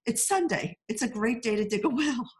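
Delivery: high-pitched, earnest folksy voice; a movie villager's odd advice, said earnestly; quaint Irish saying. Retold or imitated. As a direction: deliver it like sage village wisdom. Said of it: "So one guy says".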